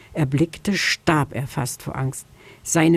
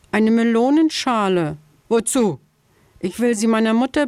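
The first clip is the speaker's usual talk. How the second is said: higher, small pleading hare voice; pleading little hare; 5 semitones higher than usual. Acted. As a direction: beg timidly like a scared little hare.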